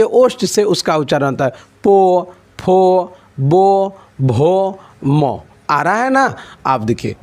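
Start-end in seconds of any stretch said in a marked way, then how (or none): 1.8-5.4 पो, फो, बो, भो, मो said slowly, each syllable pushed from the lips; slow, deliberate पो फो बो भो मो demo; drawn-out lip sounds. Shown as a demonstration. Teacher shows students lip sounds slowly and clearly. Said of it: "पो, फो बोल के देखिए".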